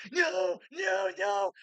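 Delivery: imitating a frantic shout; mock panicked shout. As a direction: yelp out a panicked protest. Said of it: "He's like".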